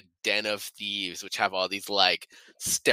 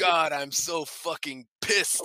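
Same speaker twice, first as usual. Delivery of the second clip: mock pissed-off hero; 6 semitones higher, slower than usual. Quoting Santa's angry action lines.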